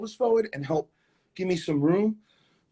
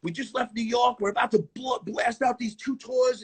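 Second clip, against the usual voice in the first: higher-pitched retelling of a psyched castmate; mock psyched, pitched up; imitated excitement; 6 semitones higher than usual. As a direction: play the pumped-up tour announcement. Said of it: "everybody was psyched and excited".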